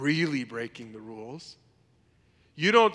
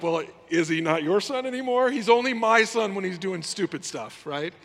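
indignant retort; 4 semitones higher, 5 dB louder than usual. Retold or imitated. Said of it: "I'm like".

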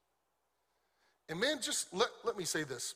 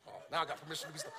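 mock quiet aside; 5 dB quieter, faster than usual. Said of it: "Lady over there's like".

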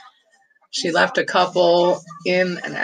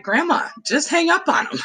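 put-on high, laughing little-kid plea; imitating a pleading child; 11 semitones higher than usual. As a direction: beg grandma like a small child. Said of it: "and like".

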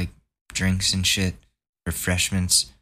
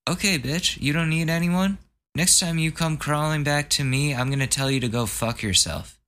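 high, mocking telling-off; sarcastic retort pitched high; mock angry retort; 7 semitones higher than usual. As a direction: snap back at him, pitched way up.

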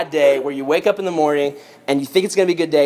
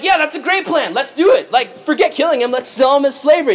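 high, eager group agreement; hammed-up giddy enthusiasm; so excited; 9 semitones higher than usual. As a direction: jump on the plan with glee. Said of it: "so excited about this".

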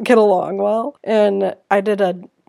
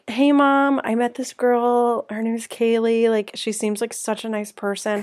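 fake sweet text voice; 3 semitones higher than usual. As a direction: put on an innocent sweet tone. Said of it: "fake text her".

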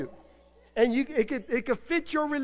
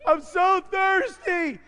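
drawn-out longing; 8 semitones higher, slower than usual. Retold or imitated. Voicing thirsty believer.

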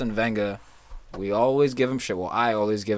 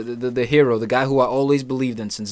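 mock-earnest praise, louder; sarcastic; 2 semitones higher, 6 dB louder than usual. Real, not acted. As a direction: gush over your hero, tongue in cheek. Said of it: "this is all sarcasm".

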